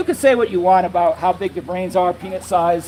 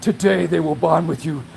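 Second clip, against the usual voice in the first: mock ominous commenter; slower than usual. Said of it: "Somebody else will comment like".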